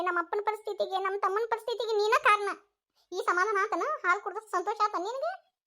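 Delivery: high-pitched scolding; agitated, accusing tirade; angry accusation. Acted. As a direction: lay the blame bitterly. Relative blames sister-in-law for accident.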